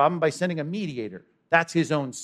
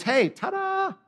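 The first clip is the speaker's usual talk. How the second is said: triumphant ta-da; slower than usual. Acted. Preacher's triumphant Easter flourish.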